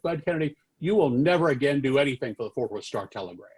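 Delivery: acted-out final dismissal; maddest. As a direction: imitate an angry boss banishing someone. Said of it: "he got maddest of all".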